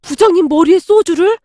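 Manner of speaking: "소주를" pushed up in an appalled question; shocked disbelief. Retold or imitated. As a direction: gasp it back in horror.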